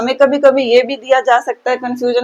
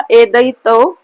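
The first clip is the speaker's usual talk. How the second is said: louder, rule recited with emphasis; emphatic recital; 6 dB louder, slower than usual. Shown as a demonstration. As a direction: call out the rule. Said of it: "क्या है छठा".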